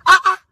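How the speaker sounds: high, loud scandalized exclamation; sharp indignant cry; outraged ah ah. Acted. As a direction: explode in disbelief. Outraged at their quarrel.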